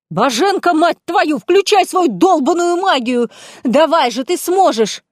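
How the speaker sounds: high, loud, slow desperate scream; яростный отчаянный крик; furious yell. Acted. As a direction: scream at her to use magic. Heroine screams at friend.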